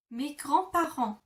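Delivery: mes grands-parents in French, uvular r, nasal an. Shown as a demonstration. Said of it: "to say my grandparents".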